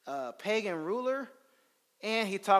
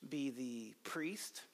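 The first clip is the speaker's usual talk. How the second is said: whispered aside; 5 semitones lower, 10 dB quieter, much slower than usual. Real, not acted. Slow unvoiced aside.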